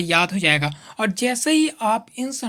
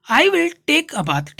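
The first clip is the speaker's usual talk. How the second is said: slow dictation; 4 semitones higher, 3 dB louder, much slower than usual. Shown as a demonstration. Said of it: "slow model sentence for students".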